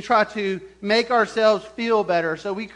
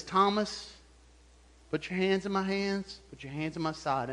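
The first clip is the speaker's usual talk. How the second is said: soft, gentle invitation; simple, unscolding; 8 dB quieter than usual. Retold or imitated. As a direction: invite the doubter quietly, without reproach. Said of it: "Jesus simply says".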